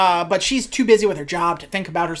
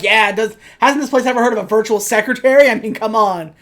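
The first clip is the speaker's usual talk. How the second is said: exasperated; 3 semitones higher, 5 dB louder than usual. Retold or imitated. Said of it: "she's like".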